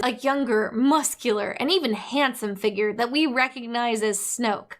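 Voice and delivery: normal talking voice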